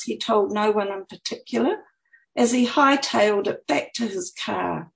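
measured, lilting author reading; expressive book-reading voice; story narration. A narrator's reading. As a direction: read your own story aloud with lifted phrases. Reads her book aloud.

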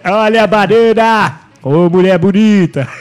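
slow drawn-out market call; market barker. Pretend. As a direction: drag it out like a vendor.

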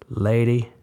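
firm and nasal, pitched to carry. A narrator's reading. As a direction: speak it firmly through the nose. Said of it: "he said in a firm, nasal voice".

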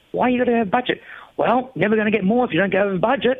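can't believe the logic; incredulous. Retold or imitated. Retold disbelief.

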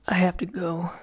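a grumbled whisper, nearly voiceless. A narrator's reading. Fingal to Adeline, grumbling that he must leave. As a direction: half-whisper it, grudging. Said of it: "he grumbled".

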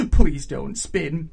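slow, loud plea after nervous laughter; desperate plea. A narrator's reading. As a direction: beg her outright.

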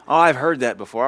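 loud, dismissive put-on retort; mock know-it-all. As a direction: mimic the been-there attitude loudly. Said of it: "that kind of attitude".

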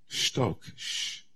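shtok, shh breathed out as a soft unvoiced whisper; whispered hush. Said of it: "But God, in a softer tone".

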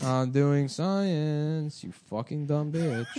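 slow drawl. Pretend. Acted scientist bit, drawn out.

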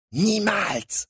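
high-pitched defiant yelp; panicked cry. A narrator's reading. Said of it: "rief der Kleine panisch". (panischer Ausruf)

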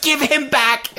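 high-pitched mock demand; acted, overwrought outburst; hammed-up yelling. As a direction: demand it like an unhinged villain. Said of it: "every time he yells".

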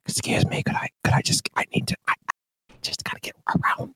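whispered polite excuse me; apologetic Midwestern whisper, barely voiced; urgent whisper. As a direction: squeeze past someone in a hushed whisper. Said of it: "we get more quiet the more urgent".

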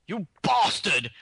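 slow, drawn-out bad British "You bastard"; mock bad British accent. Mimicking Lithgow's villain line with a poor British accent. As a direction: sneer it in a spotty British accent. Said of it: "He said it so awful".

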